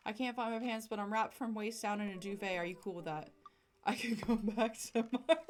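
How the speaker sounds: flustered loud dad. Acted. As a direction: panic about the missing pants. Panicked pantsless dad, flustered.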